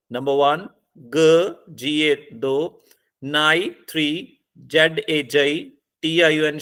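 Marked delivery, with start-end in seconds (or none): 1.0-1.7 "ग" as an isolated syllable with a short neutral vowel. Shown as a demonstration. Teacher counting syllables for the class, "ग" sounded out alone. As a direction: sound out "ग" on its own. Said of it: "इस word में syllable कितने हैं".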